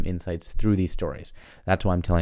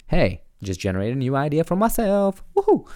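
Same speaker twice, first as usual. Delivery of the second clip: excited; 8 semitones higher than usual. Real, not acted. Excited at her new idea.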